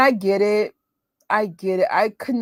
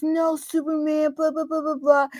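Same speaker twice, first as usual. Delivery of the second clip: higher, nerdy comic-fan voice; imitating brother; 8 semitones higher than usual. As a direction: rattle on about Superman like a kid. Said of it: "So he goes".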